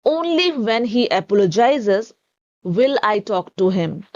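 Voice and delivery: "Only" leaned on at the start, whole sentence very slow; emphatic, stress on only. Shown as a demonstration. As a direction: push the weight onto "Only when". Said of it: "थोड़ा सा जोर दे के बोल रहे हैं".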